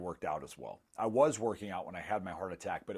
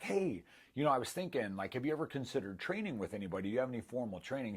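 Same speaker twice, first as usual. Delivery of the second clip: higher, quicker, friendly coaxing; sweet gentle approach; 4 semitones higher, faster than usual. Retold or imitated. Trainer gently offering help at the gym, sweetly coaxing. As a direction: ease him into the idea kindly, voice lifted. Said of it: "She was so nice in her approach".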